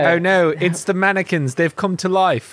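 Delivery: Briton's shaky attempt at an American accent; bad American accent. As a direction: parody a British actor playing American. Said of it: "British person doing an American accent".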